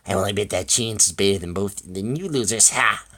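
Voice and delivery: mild crowing taunt; boastful taunt, retaken. Acted. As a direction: jeer with a loud closing "Ha!".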